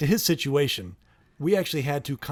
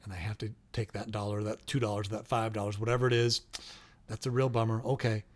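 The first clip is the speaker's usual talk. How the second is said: quiet, gentle, unhurried regret; calm and sympathetic; 3 semitones lower, 4 dB quieter than usual. Shown as a demonstration. Parent to child being charged a fee, calm soft regret. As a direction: say it softly, calm as a summer morning. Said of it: "you can be as calm as a spring, uh, a summer morning".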